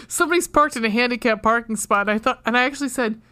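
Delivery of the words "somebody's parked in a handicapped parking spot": laughing while quoting. Retold or imitated. Officer quoted, laughing through it.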